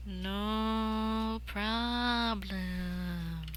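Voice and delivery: slow spluttered words; spluttering. Acted. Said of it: "I spluttered out".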